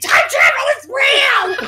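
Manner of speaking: very high, stretched-out, drawn-out shriek. Reading an ad line where a character screams: imitating someone screaming.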